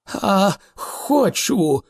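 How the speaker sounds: high, slow, defiant answer; resonant, belligerent. A narrator's reading. Arthur takes up Thor's challenge, belligerent. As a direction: drag it out boldly. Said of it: "неочікувано звучним та войовничим голосом".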